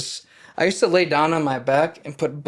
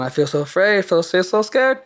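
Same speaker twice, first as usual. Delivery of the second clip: retold panic; 6 semitones higher, 4 dB louder than usual. Retelling his first panic attack.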